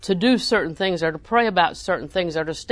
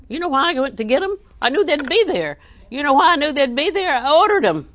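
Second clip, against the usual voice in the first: higher and louder, pressing each question home; preacher's yell; 7 semitones higher, 5 dB louder than usual. Real, not acted. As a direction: build into a fervent shout from the pulpit. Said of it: "Sorry, I'm yelling at you today".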